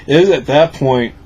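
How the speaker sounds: tipsy slurred talk; loose, tipsy chat. Real, not acted. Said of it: "we realized that we were really drunk".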